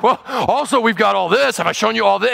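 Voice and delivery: eager mock show-off, a little laugh; lightly voiced boastful host. Pastor imitating Hezekiah showing off his armory, light mock. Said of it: "Instead, you're like".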